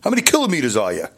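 mock New Yorker accent, quick at the end; New York street-talk impression. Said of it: "if you're from New York".

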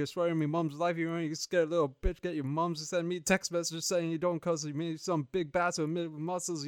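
hammed-up Cockney street threat; mock British slang rant. Reading his movie synopsis as a mock London thug. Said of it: "You just Googled British slang".

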